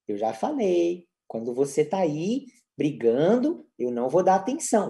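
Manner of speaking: understated parental reprimand; mild mock scolding. Shown as a demonstration. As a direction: draw out a weary telling-off. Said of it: "sem ficar brigando com a criança".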